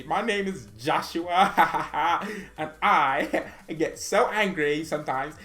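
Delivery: giggly Kimmich impression. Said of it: "Joshua Kimmich".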